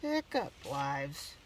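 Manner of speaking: frightened. Acted. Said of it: "he yelled".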